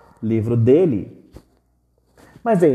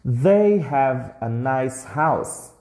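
slow model phrase; much slower than usual. Shown as a demonstration. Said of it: "You are students".

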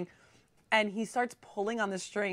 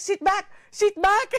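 shouted order; 12 semitones higher, 7 dB louder, slower than usual. Retold or imitated. Instructor shouting mid-flight.

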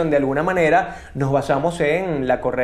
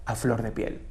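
a softer, unhurried model line, every word placed; seductive demo read; 6 dB quieter than usual. Shown as a demonstration. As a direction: show the way, gently seductive. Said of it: "Ok, yo diría". (lectura seductiva de ejemplo, más suave)

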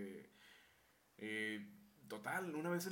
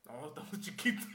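laughing refusal. Retold or imitated. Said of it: "Y yo".

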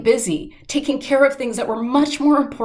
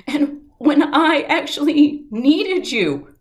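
a raw, pitched-up plea from the edge of a breakdown; retold crying scream; 5 semitones higher, slower than usual. Alone on the trail, pleading to God, retold anguished cry. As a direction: replay the desperate cry at the sky, slow and strained. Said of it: "I was crying and I was screaming like a three-year-old".

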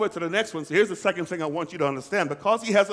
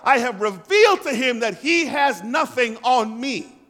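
loud, high, victorious voice of Jesus; Jesus defying the enemy, triumphant and loud; triumphant risen Jesus; 7 semitones higher, 6 dB louder than usual. Acted. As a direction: proclaim victory over the grave as Jesus.

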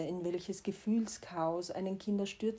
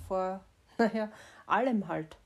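rueful laugh; 5 dB louder than usual. Real, not acted. Self-mocking about letting go.

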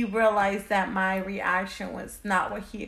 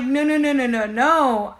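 retold denial; 3 semitones higher, 6 dB louder than usual. Denying the news, retold.

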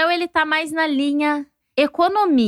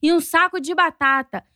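a father mocked for lecturing about hard times; dad's old-days lecture. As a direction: drag out his back-in-my-day sermon.

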